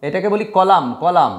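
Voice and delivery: কলাম ending on m, no n; teacher modelling কলাম; correct pronunciation. Shown as a demonstration. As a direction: say কলাম cleanly, final m only. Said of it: "লাস্টে এম এন আছে".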